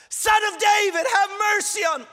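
high, importunate shout; forceful crying out. Acted. Blind beggar calling to the Son of David, forceful high shout. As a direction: belt out the plea, very high. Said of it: "crying out with such importunity and force".

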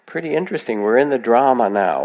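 a musing little voice in the back of the head; little inner voice. Acted. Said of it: "that little voice says".

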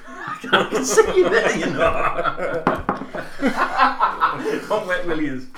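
high, loud laughing through words; breaking up mid-sentence; trying not to laugh. Real, not acted. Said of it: "I'm trying to be professional".

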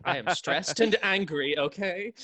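mildly villainous, stressed intonation; a touch of the flustered villain, defending himself; accidental villain. Acted. Player answering the DM as his stressed wizard, mildly villainous. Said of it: "that intonation of villainy".

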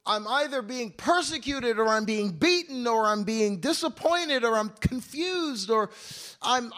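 exasperated lament. Retold or imitated. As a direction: pour out the weariness at full volume. Voicing Paul's constant struggle.

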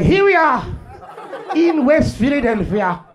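stuffy white narrator studying wildlife; white documentary narrator. Retold or imitated. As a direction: narrate like a nature show host. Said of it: "The white guy be like".

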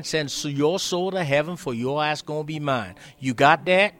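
loud, high menacing boss warning; Tom's voice. Retold or imitated. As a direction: threaten him like a harsh old boss, loud. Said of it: "Excuse my, uh, acting up".

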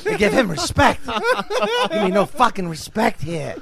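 high-pitched angry rant; hammed-up fuming, swear words stretched out; backstage tantrum. Comic throwing a chair after the act, fuming. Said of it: "throw a chair in the back after the act".

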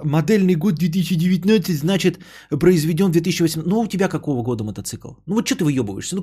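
usual speaking voice

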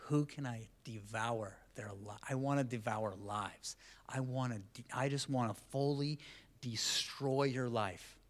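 a hint of a prowling devil; understated villain growl; lightly voiced devil. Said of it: "the devil he's like".

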